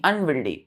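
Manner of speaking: अनविल्डी with no ing, ending on a clear ee; correct pronunciation. Shown as a demonstration. Teacher correcting pupils, anविल्डी said properly, clear ending. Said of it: "आईएनजी नहीं".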